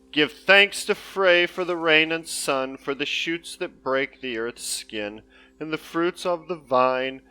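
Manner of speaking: grand, slow Norse saga reading; Viking voice. Pretend. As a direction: intone it like an old Viking skald. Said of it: "you don't like my Viking voice?".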